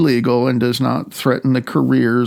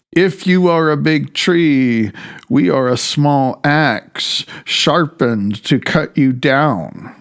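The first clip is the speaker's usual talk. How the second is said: slow, raised recital of a reggae lyric; reciting a singer's lyrics; 2 semitones higher than usual. Retold or imitated. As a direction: lean into the lyric like a quoted anthem. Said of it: "nineteen seventy-three song by a singer".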